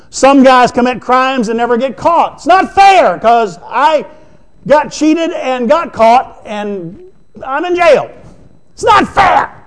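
high, slow, aggrieved whine of a cheated convict; whining prisoner. Acted. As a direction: moan it like a jailbird who got the raw deal.

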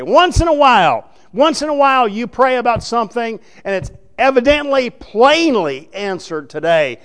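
high, loud, impassioned sermon voice; the preacher rouses his flock with ringing conviction; fiery preaching. Acted. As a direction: preach it hard to the congregation. Preaches at full force.

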